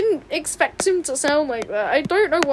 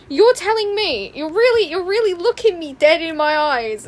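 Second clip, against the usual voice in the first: high, loud disbelief; incredulous outburst; 4 semitones higher, 5 dB louder than usual. Real, not acted. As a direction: demand it in raised, scandalized disbelief. Reacting incredulously to character's new voice.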